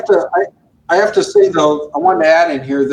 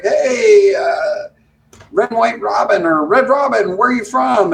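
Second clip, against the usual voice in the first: re-enacted hail to a pilot, pitched higher; imitated radio call; 5 semitones higher, slower than usual. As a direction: call out like a chatty controller. Acts out his radio call.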